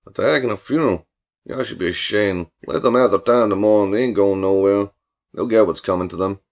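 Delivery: low, drawling country voice; mock-sympathetic Billy. Billy feigning shame over the funeral attack, drawling low voice. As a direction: sound almost sorry for them. Billy's dialogue, story character.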